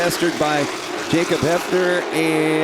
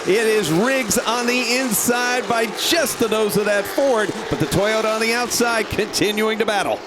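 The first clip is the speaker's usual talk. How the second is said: higher, rising race call; excited race call; 6 semitones higher than usual. Real, not acted. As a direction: call the fight for the lead. Battle for the lead.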